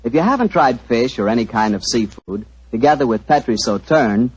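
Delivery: friendly radio ad pitch; cozy old-time sponsor spot; commercial read. Acted. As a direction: sell the wine to the folks at home.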